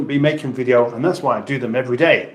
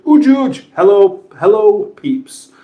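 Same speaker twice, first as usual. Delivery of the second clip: excited greeting; 7 semitones higher, 5 dB louder than usual. Real, not acted. Greeting a chat viewer.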